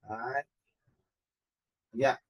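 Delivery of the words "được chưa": usual speaking voice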